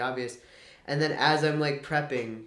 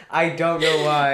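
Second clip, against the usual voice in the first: loud Southern twang; hammed-up Southern voice; Southern accent; 2 semitones higher, 9 dB louder than usual. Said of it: "default to a Southern accent".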